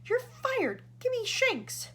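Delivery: high, loud angry command; loud furious dismissal; shouting. A narrator's reading. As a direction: bark the firing order. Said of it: "shouted ground control".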